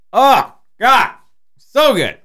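high, loud delight; ecstatic food moan. Real, not acted. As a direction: moan over amazing food. Tasting the Godzilla roll.

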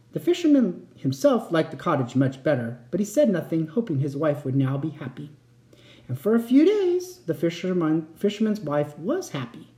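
expressive bedtime-story reading; story narration. A narrator's reading. Narrator telling a bedtime tale, expressive storytelling. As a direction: read it like a fairy tale for a child. Reads a fairy tale aloud.

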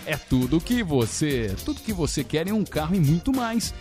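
upbeat announcer reading a car ad. Acted. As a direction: sell it like a radio commercial. Reads the Fiat Argo ad live.

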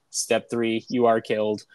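a hint of a robot, low and level. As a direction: imitate a creepy kid's robot voice. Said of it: "Starts talking in a robot voice".

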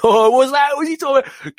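a friend ribbing him in a high mocking voice. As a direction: play the mate taking the piss.

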